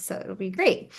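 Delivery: whispered aside; whispering. Real, not acted. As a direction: drop to a whisper. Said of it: "I'm gonna look really dumb".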